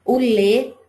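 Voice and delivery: "lê" held and stressed; stressed syllable. Shown as a demonstration. Teacher isolating the stronger syllable, stressed "lê". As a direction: lean firmly on "lê". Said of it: "é mais forte".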